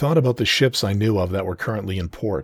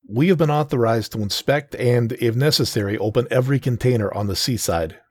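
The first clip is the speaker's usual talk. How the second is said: lightly louder official voice; stern federal agent; 4 semitones higher, 3 dB louder than usual. Acted. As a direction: address the workers with authority. Agent continues briefing.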